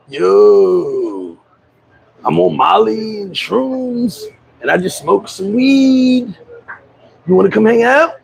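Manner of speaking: friend's voice. Retold or imitated. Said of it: "That motherfucker be like".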